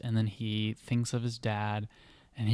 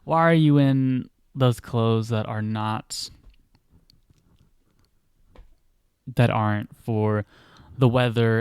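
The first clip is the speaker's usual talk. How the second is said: loud, fast, energetic mother's scolding; 7 dB louder than usual. Retold or imitated. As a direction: scold him in a burst of energy, not meanly. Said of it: "really energetic".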